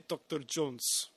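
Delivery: "Doctor Jones" slow, with a Russian accent. Shown as a demonstration. Showing how Russians say the name, slow Russian accent. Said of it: "The Russians would say".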